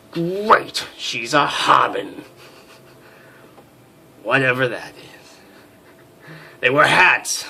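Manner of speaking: lightly voiced, haughty officer's inner monologue; stern major narrating. Major sizing up a new crew member, haughty. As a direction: read it like a proud, irritable major.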